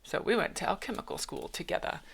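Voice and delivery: soft, almost whispered; hushed read. Shown as a demonstration. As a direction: breathe the line quietly. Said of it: "then you edit it better".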